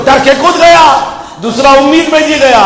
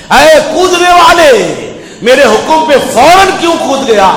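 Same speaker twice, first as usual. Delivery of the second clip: God calling out; 4 semitones higher than usual. Acted. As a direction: stretch the call to the one who jumped. God calls into hell.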